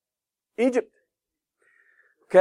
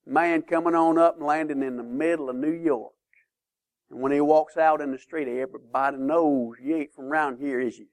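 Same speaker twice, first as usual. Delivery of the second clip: put-on Texan accent; 3 semitones lower than usual. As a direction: do a touch of Houston country talk. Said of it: "their accent was very different".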